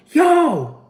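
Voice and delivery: retold yell. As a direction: holler it at the driver. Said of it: "he yelling".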